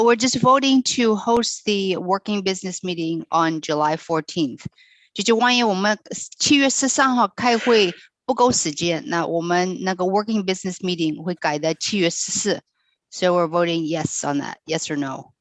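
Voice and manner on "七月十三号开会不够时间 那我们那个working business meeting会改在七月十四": non-native Mandarin. Real, not acted. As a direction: struggle through the Mandarin carefully. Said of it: "Sorry, my Chinese is horrible".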